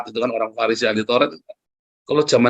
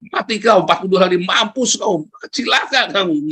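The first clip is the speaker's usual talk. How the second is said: higher, half-hammed curse at the city; mock angry preaching; 5 semitones higher than usual. Jonah cursing the Ninevites while preaching, mock angry. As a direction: play Jonah spitting doom, lightly. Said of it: "Dia marah-marah sambil, sambil khotbah".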